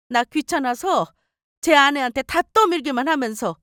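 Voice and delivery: put-on nagging, reproachful older mother; lightly voiced mother laying on the guilt; scolding mother-in-law. Mother-in-law berates her son over chores, reproachful scolding.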